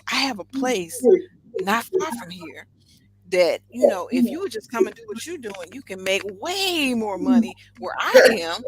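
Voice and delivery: stretched-out key words in an eager retold offer; enthusiastic pitch. Salon owner retells recruiting London stylists, enthusiastic pitch. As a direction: sell it keenly, leaning on the big words. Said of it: "I mean, I was enthusiastic".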